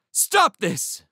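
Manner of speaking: high-pitched, loud command; repeated shout. A narrator's reading. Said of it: "Dell repeated".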